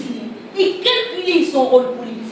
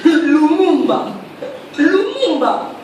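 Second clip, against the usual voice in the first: scornful echo; slower than usual. Acted. Scornful echo of rival's chosen hero.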